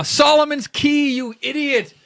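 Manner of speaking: high-pitched exasperated outburst; exasperated self-scolding. Real, not acted. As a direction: scold yourself for the obvious miss. Scolds self after wrong guess.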